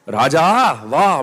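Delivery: mother's proud, ringing call; Kaikeyi calling Bharata. Acted. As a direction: call your son with a rising lilt, then a pause. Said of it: "Kaikeyi எப்படி கூப்பிட்டா பரதனை?". (மகனை ஆசையாக அழைக்கும் தாய்)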